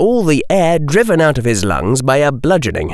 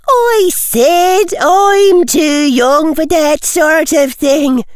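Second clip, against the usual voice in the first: put-on much higher, louder, slow girlish protest; prissy young girl; 5 dB louder, slower than usual. A narrator's reading. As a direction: whine like a spoiled schoolgirl. Girl student voiced in story.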